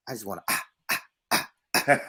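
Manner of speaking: imitating song ad-libs. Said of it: "the only thing that gets us".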